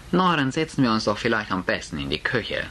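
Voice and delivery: ein Hauch von Nervosität in hoher Mutterstimme; überspiele leicht gehoben die Unsicherheit; nervös. Acted. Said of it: "sichtlich nervös". (Mutter schlägt nervös die Küche vor)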